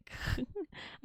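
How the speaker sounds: soft little high-pitched laugh. Real, not acted. Streamer amused by a chat message, soft laugh. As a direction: give a small, quiet giggle.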